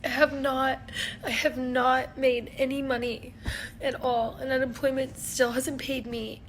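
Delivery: teary voice breaking while talking; ugly crying. Real, not acted. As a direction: speak through real tears. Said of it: "I'm ugly crying right now".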